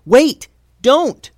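high, loud urgent stop; urgent plea. A narrator's reading. Tulsi stopping her friend's attack, urgent high cry. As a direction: cry out to halt someone. Tulsi stops Mallory from blasting.

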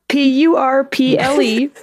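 spelling out letters. Shown as a demonstration. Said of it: "I'm gonna start with purple".

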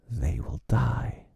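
slow, gloating pirate; gloating villain. A narrator's reading. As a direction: savour it slowly. Hook gloats after laugh.

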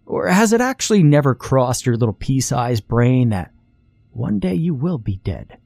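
put-on a know-it-all boy talking down to his little sister; smug morbid lecture.

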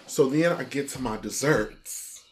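"desserts" said with showy relish. Real, not acted. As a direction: lean on the word "desserts". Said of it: "the way you said desserts is sick".

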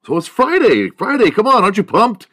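high, loud Friday hype; all excited. Real, not acted. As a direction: pump the listeners up for Friday. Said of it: "with my voice, all excited".

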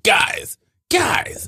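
imitating him pleading with the guys; mock pleading call. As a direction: call out to the men for backup. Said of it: "He's like".

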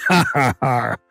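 hearty pirate chuckle; a hammy old-salt laugh. Acted. Pirate laughs at own joke.

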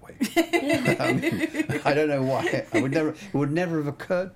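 laughing through the words, pitch jumping high. Real, not acted. Cinematographer to interviewers, laughing at his happy accident. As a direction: chuckle at your own luck, real laughter bubbling up.

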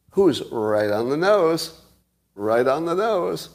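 slow, knowing sarcastic drawl; dry sarcasm. Real, not acted. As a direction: stretch it out, slowly and pointedly. Sarcastic repeat of on the nose.

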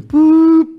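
high, loud sustained beep by mouth; imitated phone tone. Prank call being put on air, imitated phone beep. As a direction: mimic the line beeping.

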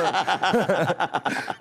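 laughing. Real, not acted. Riso depois da piada.

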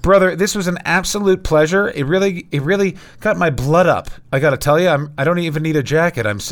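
riled up from ranting about dicks; pumped up. Real, not acted. Guest thanks host, all pumped up and loud. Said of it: "I'm all pumped up".

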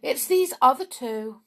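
sly whiny goblin. A narrator's reading. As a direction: tattle on the others. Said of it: "said Snap".

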